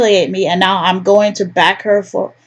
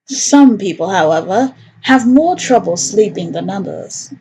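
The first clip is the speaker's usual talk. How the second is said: storyteller's scene-setting voice; lightly voiced narrator; story narration. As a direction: set the night scene for the table.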